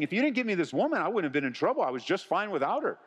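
indignant excuse, shifting the blame; blaming Adam. Acted. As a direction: protest it in a rush. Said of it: "as if Adam is saying".

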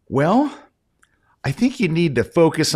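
hushed hesitant advice. Retold or imitated. Photographer gently hedging his verdict to the woman, hushed. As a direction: tiptoe around the bad news.

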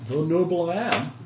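a hint of a stiff, courteous official; polite but firm refusal; lightly voiced minor noble. NPC noble.

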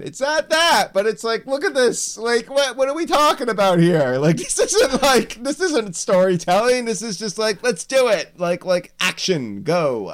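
very high-pitched, incredulous complaining; exasperated rant. Real, not acted. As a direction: squeal your disbelief at the absurdity, half joking. Mock exasperated rant about rushed storytelling.

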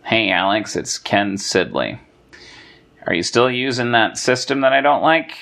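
a hint of a droll tax accountant; accountant impression. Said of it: "He's like".

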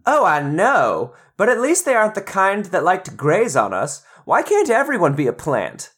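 cheerful little plant voice. Acted. Second plant voice answers.

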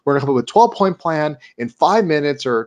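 a lightly voiced, eager Michael Scott rallying his team; excited boss pep talk. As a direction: hype up the staff with big promises. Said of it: "decides to tell everybody at the meeting".

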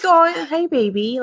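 high coo to a pet; cooing to a cat. Retold or imitated. Talking to her cats, high coo. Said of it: "That's how I talk to my cats".

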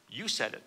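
emphasize You, let the rest fall; stress on YOU. Acted. Yeshua answering Pilate's question, stress on YOU. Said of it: "with the emphasis on you".

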